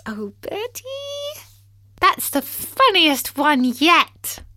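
high, slow, breathy through laughter; breathless laughing. Acted. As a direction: wheeze out the words laughing. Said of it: "exclaimed Tim".

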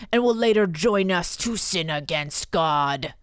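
demon voice. Acted. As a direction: read it like a hoarse demon. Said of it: "I should be doing a demon voice".

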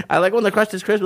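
high little whiny voice. Retold or imitated. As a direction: whine it like a teasing friend. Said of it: "little whiny voice".

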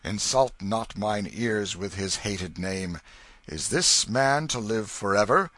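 loud furious royal outburst; angry king. A narrator's reading. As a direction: rage at the noble, loud. King rages at the noble.

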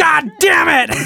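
high, loud parrot shout; swearing parrot. Pretend. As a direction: yell it like a cursing bird. Joining the swearing bird game.

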